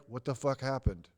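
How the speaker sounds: low, quiet, a touch stunned; hushed what-happened; hushed bewildered question. Retold or imitated. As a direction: mutter it in disbelief. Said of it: "the tone was like".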